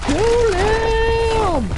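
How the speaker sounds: high, drawn-out battle yell; shouted kill order. Acted.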